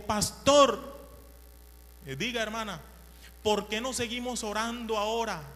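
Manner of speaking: put-on high, loud little old lady calling the pastor; eager old lady. Old woman urging the pastor to keep praying, high and eager. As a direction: pipe up like an eager old churchwoman. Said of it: "la viejita dijo".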